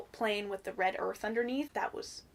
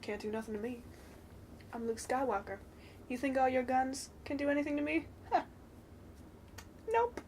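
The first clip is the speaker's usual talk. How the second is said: cocky Luke; 2 semitones higher, 7 dB quieter, faster than usual. Retold or imitated. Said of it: "Just walks out of the dust like".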